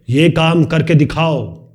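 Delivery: slow, firm command with ये hit hard; commanding order. Shown as a demonstration. Teacher demonstrating a bossy instruction to a student. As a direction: order it, drawing out each word. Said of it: "ये अलग तरीका हो गया".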